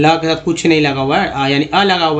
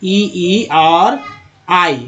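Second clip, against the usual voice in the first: ई ई drawn out slowly, one sound at a time; slow vowel demo; much slower than usual. Shown as a demonstration. Teacher listing vowel sounds for students, slow and drawn out. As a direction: stretch each ई out for the class. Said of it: "पांच तरह से उच्चारण होता है".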